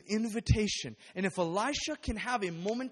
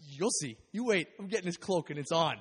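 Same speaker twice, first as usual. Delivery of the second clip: cocky taunt; 4 dB louder than usual. Retold or imitated. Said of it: "he's just like".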